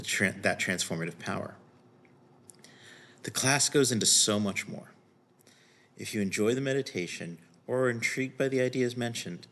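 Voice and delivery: measured, scripted voice-over read; scripted introduction read. Acted. Teacher introducing a recorded retreat meditation to viewers, scripted read.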